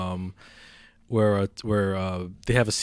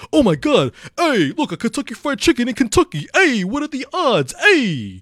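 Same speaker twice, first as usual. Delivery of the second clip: much higher and louder, a hammed-up mobster-ish Italian-American guy; Tony Lip impression; 13 semitones higher, 8 dB louder than usual. Tony excited to find Kentucky Fried Chicken in Kentucky, loud and high mock voice. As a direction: gawk like a tourist thrilled by the chicken shack.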